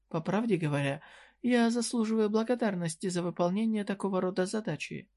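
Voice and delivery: put-on a coy shopkeeper needling a young customer; voiced merchant woman. Merchant explains her service. (слегка повышенный голос лукавой торговки)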